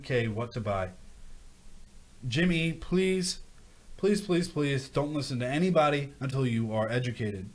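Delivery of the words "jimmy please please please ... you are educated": pleading. Real, not acted. Pleading with a viewer.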